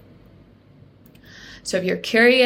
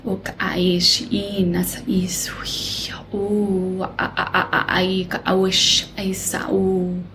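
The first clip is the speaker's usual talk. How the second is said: light language channeling; 4 semitones higher than usual. Acted. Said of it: "channel some light language for you".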